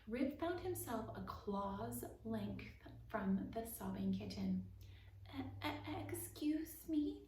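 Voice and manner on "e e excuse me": stammering. A narrator's reading. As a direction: stutter it out like a scared little mouse. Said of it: "Rip stammered".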